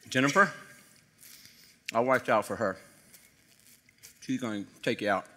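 low, hushed, insinuating; sly gossip devil. Retold or imitated. The enemy gossiping about family at the table, low and sly. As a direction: drip poison into the ear quietly. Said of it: "How's everything at home".

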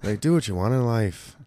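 mock British accent; badly faked British accent. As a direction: imitate a British lilt, badly. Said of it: "my fucking British accent sucks".

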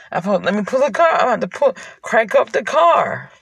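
crying. Real, not acted. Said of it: "'cause I'm actually crying".

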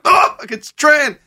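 high, slow, loud mock voice; impression of Tran. Doing his impression of the waiter Tran, high and slow. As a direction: stretch it out high like a cartoon. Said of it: "my impression of Tran Long".

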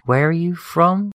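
high, slow mock German officer asking; playing a suspicious German with a German accent. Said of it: "somebody would be saying".

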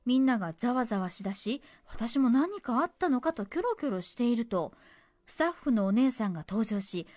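measured story-reading delivery; letter reading. Acted. Radio host reading a cinema memory to listeners, narrated. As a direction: read the letter out as a tidy narrative.

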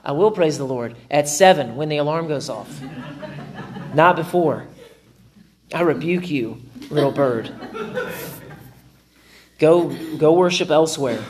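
groggy rebuke, laughing; a mock rebuke to a noisy bird, chuckling; light laughing mock grumble; grumpy half-laughing rebuke. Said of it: "I'm like".

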